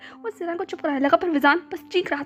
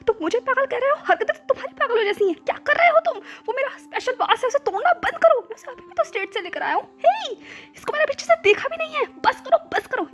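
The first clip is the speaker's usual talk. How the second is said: exasperated shouting; 9 semitones higher than usual. A narrator's reading. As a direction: yell at him to stop smashing. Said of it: "जोर-जोर से चिल्लाने लगा".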